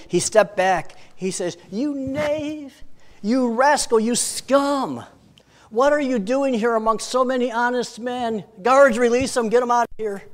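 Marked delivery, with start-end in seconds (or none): 1.7-10.2 a king thundering at the honest men, then ordering the guards; angry king. Acted. King scolds guilty-free prisoners.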